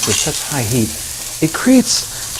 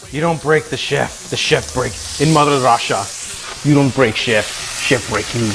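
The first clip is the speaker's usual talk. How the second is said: put-on terrible Russian accent; 2 semitones lower than usual. Streamer defying chat, terrible Russian accent. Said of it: "terrible accent".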